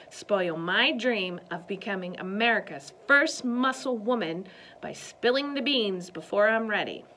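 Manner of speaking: words pushed through clenched teeth; through gritted teeth. Acted. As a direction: grit your teeth and keep it loud. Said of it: "through gritted teeth".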